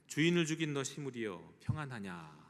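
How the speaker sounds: mildly declaimed jeer, falling away at the end; retold haughty taunt, starting strong then dropping; mocking taunt. Jezebel's character calls down to the arriving usurper, lightly mocking. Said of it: "조롱하고 저주한 겁니다".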